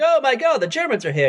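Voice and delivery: high mock-panicked gasp on "Oh my God"; imitating a panicked hotel owner. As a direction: play Basil panicking, half-hammed. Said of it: "And he's, like, panicked".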